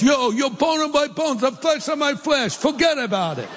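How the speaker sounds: high-pitched East Coast wise guy; East Coast accent. Acted. Preacher imagines Adam from the East Coast, high mock accent. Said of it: "Or East Coast".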